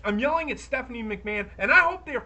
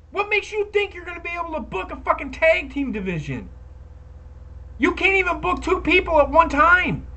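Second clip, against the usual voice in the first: loud, higher furious rant; angry yelling; 5 semitones higher, 4 dB louder than usual. Real, not acted. Telling the McMahons to book the women right, shouting. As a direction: tear into them like they're listening. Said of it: "I'm yelling at fucking the McMahons".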